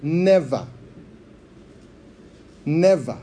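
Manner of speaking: NEVER set apart and repeated firmly; stress on NEVER. Shown as a demonstration. Preacher pointing congregation to one word, stressed NEVER. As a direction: say NEVER on its own, with weight. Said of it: "I want you to notice the word".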